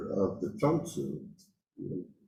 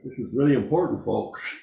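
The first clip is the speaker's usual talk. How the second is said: a quick, urgent burst, a bit louder; urgent emphasis; 4 semitones higher, 5 dB louder than usual. Retold or imitated. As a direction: press it on the folks like it really matters. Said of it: "the emphasis and the almost a feeling of urgency".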